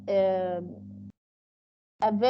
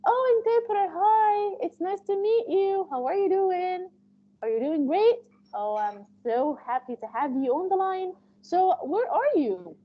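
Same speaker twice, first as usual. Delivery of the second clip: bright, high and eager, a chatty patient making small talk; 6 semitones higher than usual. Retold or imitated. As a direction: gush like a friendly patient on the line. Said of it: "they tell you".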